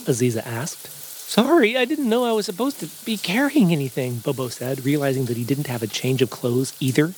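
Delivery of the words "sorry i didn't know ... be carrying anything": high, bouncy cartoon bear; eager goofy bear; cheerful bear voice. Bobo voice.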